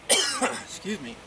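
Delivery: slow, strained after coughing; clearing the throat; just inhaled a bug. Real, not acted. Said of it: "I think I just inhaled a bug".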